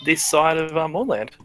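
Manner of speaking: indignant merchant. Acted. Merchant denies, defensive.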